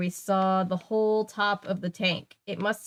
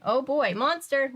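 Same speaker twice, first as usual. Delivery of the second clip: higher, bright mock thrill; excited; 5 semitones higher than usual. Real, not acted. Mock thrill at monster reveal.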